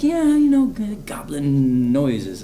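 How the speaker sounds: imitating a hushed, very slow whisper; mock whisper. Retelling the casting people explaining goblin noises, mock whispered. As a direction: whisper it like a spooky secret. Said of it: "they're like".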